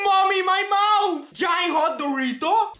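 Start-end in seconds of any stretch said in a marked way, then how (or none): 0.0-1.3 burning mouth shout. Real, not acted. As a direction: yell as the heat hits.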